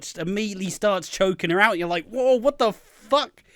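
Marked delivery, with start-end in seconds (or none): 2.1-3.4 higher, slower mock gasp of disbelief; shocked whoa. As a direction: stretch out the whoa in half-joking alarm. Viewers shocked by the choking.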